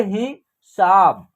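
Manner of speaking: हिसाब with a brief हि, then a longer साब; short i. Shown as a demonstration. Teacher demonstrating the short vowel sign, हिसाब with short i. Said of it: "कम होगा".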